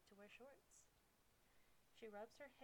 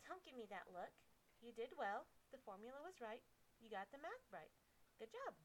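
higher, bright praise; girl tutor voice; 4 semitones higher, 5 dB louder than usual. Acted.

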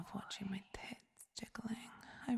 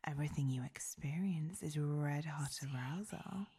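whispered domineering goddess. Acted. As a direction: purr it like a commanding goddess. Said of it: "My heavenly voice".

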